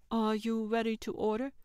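lightly voiced cheerful politeness with a smile; smiling. A narrator's reading. Server greets diners at the table, smiling. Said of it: "she said with a smile".

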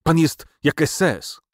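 outraged accusation. A narrator's reading. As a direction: hurl the accusation out, word by word. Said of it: "zacisnęła pięści".

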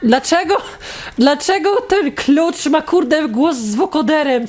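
high, slowed-down incredulous question; baffled disbelief. Real, not acted. Gamer baffled by a key's vocoder sound, incredulous. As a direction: stretch the question out in high-pitched bewilderment.

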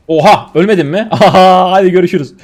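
loud, startled outburst then a laugh; surprised shout. Real, not acted. Gamer shocks his stream by surviving a fight, loud surprise.

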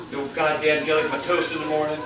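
normal talking voice

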